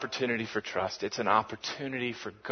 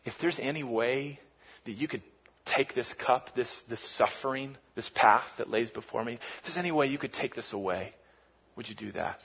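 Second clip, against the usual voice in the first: soft, hushed anguished plea; understated anguished prayer; pleading prayer; 4 dB quieter than usual. Retold or imitated. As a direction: beg the Father quietly. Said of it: "he says".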